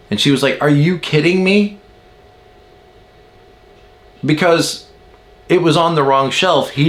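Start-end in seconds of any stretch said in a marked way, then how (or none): 0.6-1.8 high, rising mock disbelief; incredulous. Wife reacting to the wrong-shelf complaint, incredulous. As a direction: imitate disbelief with raised pitch.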